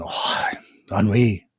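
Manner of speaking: sighed "ennui" in a mock French accent; drawn-out mock French "ennui". Joe imitates himself among French speakers, mock French. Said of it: "I'm just sitting there going".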